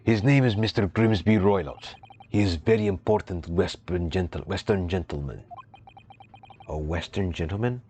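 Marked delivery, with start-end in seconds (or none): 0.0-5.4 a hint of a gruff Russian accent; proud sailor, lightly put-on Russian accent; lightly voiced Russian sailor.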